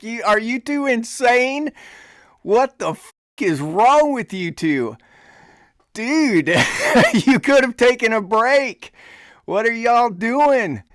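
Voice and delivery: a sergeant stunned by his soldiers; retold incredulous sergeant. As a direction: ask if they've gone mad.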